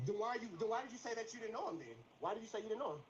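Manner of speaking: loud angry questioning; shouting. Real, not acted. Heated challenge.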